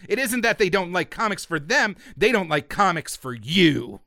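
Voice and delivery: hammed-up indignant rallying speech; mock angry pamphlet. Host reading an angry anti-censorship pamphlet, mock outrage. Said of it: "in very angry language".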